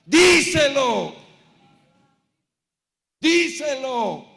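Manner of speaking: long, high, very loud shout; shouted urging. Acted. Preacher acting out someone urging a church sister to speak up, shouted urging. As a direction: belt it out as a drawn-out command.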